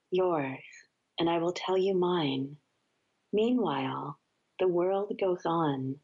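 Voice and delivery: measured, unhurried poetry reading; poem reading. Acted. Guest reading a Mary Oliver poem on air, calm recital. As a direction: let each line settle before the next.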